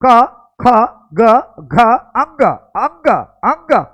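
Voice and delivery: syllables said with the nose pinched closed, blocked and strained; pinched-nose demo of the velar row, anga stuck in the throat; nose held shut. Shown as a demonstration. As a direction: pinch your nose and say the letters. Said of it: "नाक बंद करो".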